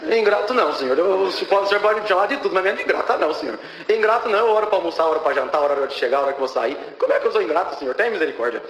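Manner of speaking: retold indignant plea to God; pleading protest. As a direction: protest your innocence, rushing into a list of proofs. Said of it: "Eu falando e clamando a Deus". (protesto suplicante, revivendo a discussão com Deus)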